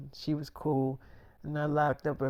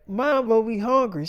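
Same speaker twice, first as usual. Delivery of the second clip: higher, louder mock kid whine; whiny kids; 7 semitones higher, 6 dB louder than usual. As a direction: plead like a hungry child. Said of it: "they was like".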